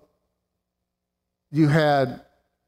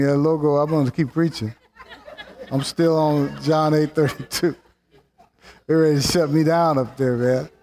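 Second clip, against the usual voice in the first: chuckling, quick playful remark; amused defiant aside; laughing aside. Real, not acted. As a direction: laugh it off while talking. Joking about logo, laughing.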